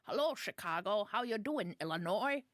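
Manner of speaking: put-on a light, jokey stab at a Chicago accent; mock Chicago accent, barely there. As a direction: greet Illinois in a half-hearted Chicago accent. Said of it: "That's my Chicago accent".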